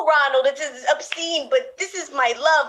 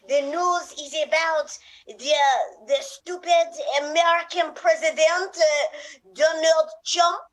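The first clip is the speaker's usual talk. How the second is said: put-on French accent; 2 semitones higher than usual. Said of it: "You do it in French accent".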